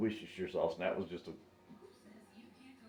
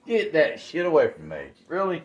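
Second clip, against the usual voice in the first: mock outrage; 5 semitones higher, 9 dB louder than usual. Real, not acted. Outraged at paper plate idea.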